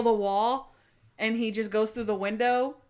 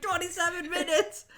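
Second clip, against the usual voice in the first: high, flat announcement of the time; mock grave verdict; the trainer breaking the bad news; deadpan reveal; 8 semitones higher than usual. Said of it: "He's like".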